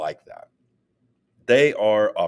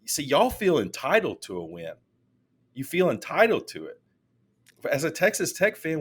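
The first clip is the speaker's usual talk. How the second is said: loud and proud; 8 semitones higher than usual. Retold or imitated. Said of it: "I was saying it loud and proud".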